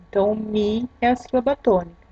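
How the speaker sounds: normal talking voice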